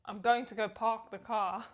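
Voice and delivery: lightly done South African accent. Shown as a demonstration. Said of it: "to get into the South African accent".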